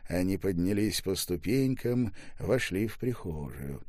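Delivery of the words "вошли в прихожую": plain reading voice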